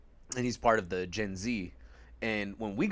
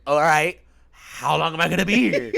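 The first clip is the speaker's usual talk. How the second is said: laughing question; 4 semitones higher, 10 dB louder than usual. Retold or imitated. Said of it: "She's like".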